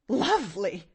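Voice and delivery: lightly scornful echo. A narrator's reading. Angry aunt echoing her niece, scornful. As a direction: throw the word back with scorn. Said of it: "scorned the woman".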